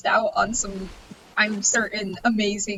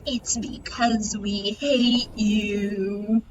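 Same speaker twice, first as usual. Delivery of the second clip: mock cruel whisper; slower than usual. No, I'm just kidding.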